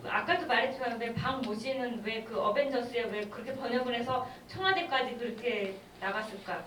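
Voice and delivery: ordinary talk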